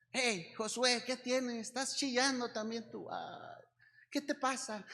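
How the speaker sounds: a hint of tender concern; gentle coaxing. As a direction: softly coax a crying friend. Jesus voiced coaxing weeping Josué.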